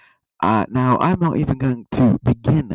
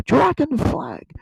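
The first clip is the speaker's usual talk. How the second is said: excited squeal; 14 semitones higher, slower than usual. Real, not acted. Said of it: "repeats dragon flag".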